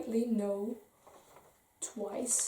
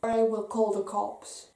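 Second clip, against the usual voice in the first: retold snapping; 7 dB louder than usual. Telling off a man who keeps pestering her, loud and angry. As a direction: snap back hard at a pushy stranger. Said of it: "Sissy snapped".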